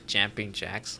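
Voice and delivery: plain American "white dude" accent; unaccented white-guy American reading. Shown as a demonstration. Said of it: "say it like a white dude".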